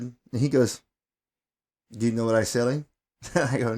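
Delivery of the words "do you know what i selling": lightly imitated Middle Eastern caller; a hint of a Middle Eastern accent on the phone; retold caller with a light Middle Eastern accent. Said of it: "you know, with his accent".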